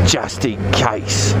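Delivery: slow, menacing bike-bouncer voice; Dave's voice. Retold or imitated. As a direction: drag it out like a bouncer. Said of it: "says Dave".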